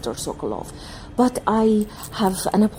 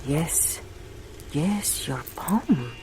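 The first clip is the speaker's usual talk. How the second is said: slow mystic; 9 dB quieter, much slower than usual. Acted. Reading the client's palm.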